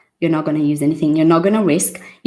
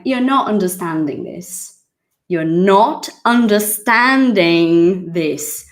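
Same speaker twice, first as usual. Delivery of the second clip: mock American accent. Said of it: "My American accent is shit".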